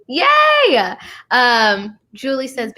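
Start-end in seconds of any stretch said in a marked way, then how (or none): 0.1-0.9 very high squeal of delight; real excited yay; excited cheer. Real, not acted. Host cheers her new light.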